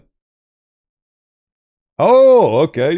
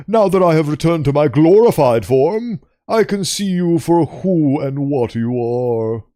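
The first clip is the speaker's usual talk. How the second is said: a hint of a refined creature; lightly voiced posh creature; 2 semitones higher than usual. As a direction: speak as a calm, superior ancient beast. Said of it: "six eight two sounds like posh".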